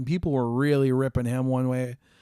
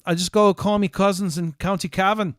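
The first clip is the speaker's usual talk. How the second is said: put-on Irish accent; 3 semitones higher than usual. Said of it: "if I wanna hear an Irish accent".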